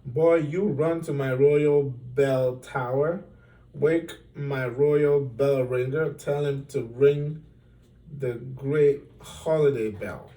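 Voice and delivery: loud, bossy royal orders; a king ordering a servant about; commanding king. Acted.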